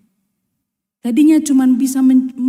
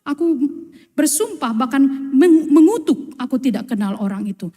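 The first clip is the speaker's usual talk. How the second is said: swearing denial; 2 semitones higher than usual. Retold or imitated. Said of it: "Maka Petrus mengatakan".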